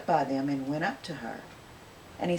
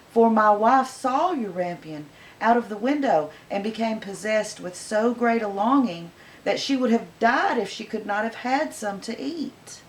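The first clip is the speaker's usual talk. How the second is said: pleading husband; 4 semitones higher, 4 dB louder than usual. Acted. Man begs the witch.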